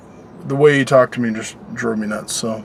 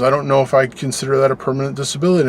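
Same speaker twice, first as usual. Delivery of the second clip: quoting the doctor; faster than usual. Retold or imitated. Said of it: "he goes".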